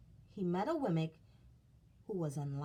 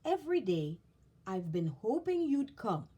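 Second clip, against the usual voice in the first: earnest explanation; 3 semitones higher, 5 dB louder than usual. Acted. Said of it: "Eli explained".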